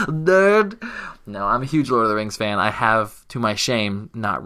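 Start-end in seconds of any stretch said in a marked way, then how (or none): 0.1-0.8 higher, louder mock shout; playful jeering shout; mock yell. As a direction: bark the word as a joke insult. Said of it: "You sound like me talking about P C gamers".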